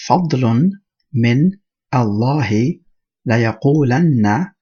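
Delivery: measured Arabic recitation, one word at a time; Quran recitation. Acted. Teacher reciting the next ayah for students, careful word-by-word recitation. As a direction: recite deliberately, pausing after each word.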